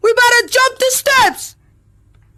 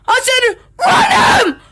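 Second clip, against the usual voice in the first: shout. Acted. Shouted order repeated.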